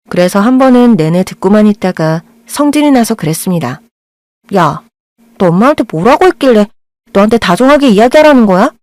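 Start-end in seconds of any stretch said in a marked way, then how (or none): 4.5-8.7 put-on angry girl. Girl confronts boy angrily.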